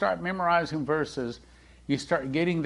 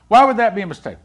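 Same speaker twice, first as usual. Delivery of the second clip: mock protest; 7 semitones higher, 10 dB louder, much faster than usual. Young man asking the pastor.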